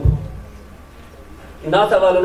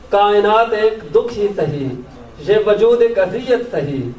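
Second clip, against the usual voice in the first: measured Urdu nazm recital, pauses between phrases; poetry recitation; 2 semitones higher than usual. Acted. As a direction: lift each opening, let the line fall away. Recites own poem to audience.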